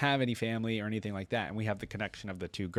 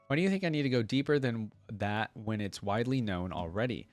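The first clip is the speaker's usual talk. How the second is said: lightly voiced devout young warrior, earnest; Leona's reply read; 3 semitones higher than usual.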